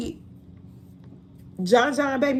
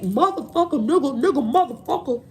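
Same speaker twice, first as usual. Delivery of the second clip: imitating crude talk. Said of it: "when they talk like that".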